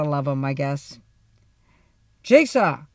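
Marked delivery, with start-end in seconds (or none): 2.2-2.8 loud surprised exclamation; exclaiming. A narrator's reading. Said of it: "my dad exclaimed".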